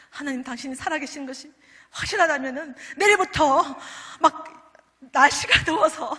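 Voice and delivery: a mild replay of a desperate weeping plea; half-reenacted tearful cry to God; tearful prayer. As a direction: retell the crying prayer, pleading and loud in places. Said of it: "막 울었습니다".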